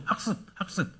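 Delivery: breathy whisper of the word; whispered repetition. Acted. Preacher whispering to congregation, hushed repetition. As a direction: drop to a whisper for emphasis.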